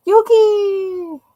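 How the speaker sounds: high, loud call. Real, not acted. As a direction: call the pet's name across the room. Calling pet by name.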